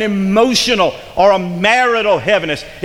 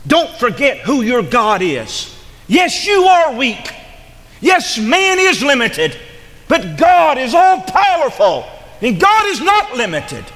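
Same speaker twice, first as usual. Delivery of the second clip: preaching climax; 6 semitones higher than usual. Real, not acted. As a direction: ring it out, God is all powerful. Preaching climax on God's power.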